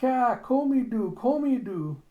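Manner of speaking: put-on high, loud childish squeal; eager little-child voice. Child begging to join the planting, high acted squeal. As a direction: squeal it like an excited toddler.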